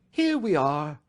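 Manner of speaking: cheerful host arriving home; cheerily. A narrator's reading. Detective bringing the clerk into the room, cheery. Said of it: "said Holmes cheerily".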